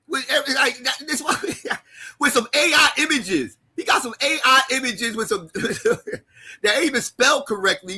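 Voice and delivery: real laughter breaking into the words; cracking up mid-sentence; laughing mockery. Real, not acted. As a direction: ridicule it through laughs. Laughing at the website's images.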